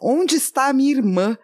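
lightly acted arrogant prince; loud Viserys. Viserys demanding his sister before a silent crowd, mildly imperious. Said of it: "o Viserys fala muito alto".

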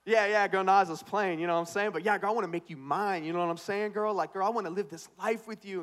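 mock smooth pickup line to his future wife; playing it cool. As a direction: lay on the charm like a ladies' man. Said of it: "Play it cool, bro".

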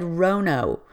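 "rono" with a long O in place of rhino; mispronounced start. Retold or imitated. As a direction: say "rono", rhyming with oh-no. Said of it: "she started the word wrong".

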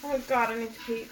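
a little tipsy from wine. Real, not acted. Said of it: "I'm so tipsy".

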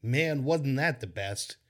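slow, drawn-out mock reminiscing; imitating nostalgic fans. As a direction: imitate wistful fans, slowly. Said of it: "is people going".

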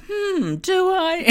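slow, very high, loud mock doubt; mock pondering. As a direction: draw it out, teasing her hesitation. Teasing re-enactment of her doubting.

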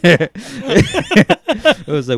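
words squeezed out through laughter; laughing hard mid-sentence; breaking up with laughter. Real, not acted.

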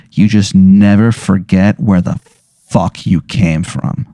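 slow, dropping, weighty delivery; solemn parting advice. Acted. Janitor to the one she rescued, solemn parting advice. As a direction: let it sink slowly into gravity.

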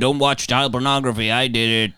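cheesy morning radio DJ voice; chirpy breakfast show host patter; Dan Reed morning zoo voice. Pretend. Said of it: "Do you think he does it in a Morning Zoo voice?".

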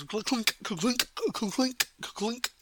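clinking noises, lifting in pitch; imitated peg-leg clinking. Game master mimicking the pirate hobbling down the corridor, imitated clinking. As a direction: sound out a clunky peg leg.

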